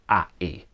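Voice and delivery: "a, e" as just the first and last vowels of gravity; vowels only. Shown as a demonstration. Songwriting teacher reducing gravity for learners, "a, e" as two bare vowel sounds. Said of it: "So instead of gravity, we've got".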